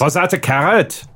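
second attempt at a German accent. Shown as a demonstration. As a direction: rehearse the question in a German accent. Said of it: "do a good German accent".

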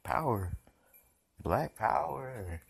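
slow, stretched, rising awe on Black power; awed reaction. Retold or imitated. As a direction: marvel at the singer's power, drawn out. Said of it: "and I'm like".

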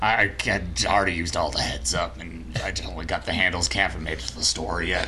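a light put-on Southern accent, playing a broke hick. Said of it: "You sound so Southern".

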